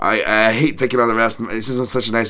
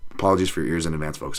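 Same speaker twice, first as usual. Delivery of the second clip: mock announcement; 4 semitones lower, 5 dB quieter, faster than usual. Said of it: "Mark Smith will be like".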